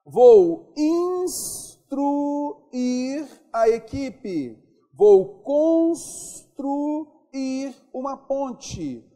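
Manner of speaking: instruir and construir sung out slowly, high and loud on truir; slow, high, loud model of instruir and construir; stretched-out stress. Shown as a demonstration. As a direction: drag the truir way up so the class hears it. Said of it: "a vogal I, que é tônica".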